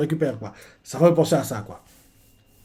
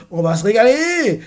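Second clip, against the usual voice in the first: impatient; 6 semitones higher than usual. Retold or imitated. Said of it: "Luffy fait".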